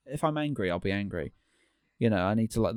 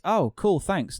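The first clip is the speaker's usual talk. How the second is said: higher-pitched mock gratitude; sarcastic thanks; 7 semitones higher, slower than usual. Reacting to a remark about buying snacks, sarcastic. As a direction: thank them as if they had done you a favor.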